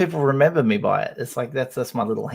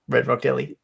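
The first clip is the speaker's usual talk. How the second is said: posh voice. Pretend. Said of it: "Say it like as if you've just had a packet of those".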